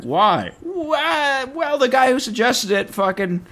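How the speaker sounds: high, indignant, incredulous; shrill gossip reveal; high mock outrage.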